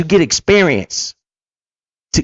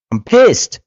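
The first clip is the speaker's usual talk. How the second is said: real anger, higher-pitched burst; pissed off; 5 semitones higher than usual. Real, not acted. Man angry at never being taught this, pissed off. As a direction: let out how pissed you are. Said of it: "and I'm pissed".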